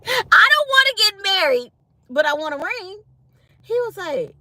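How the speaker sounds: squealing high through laughter; laughing. Retold or imitated. Telling husband about the ring, laughing. Laughing while retelling own quote.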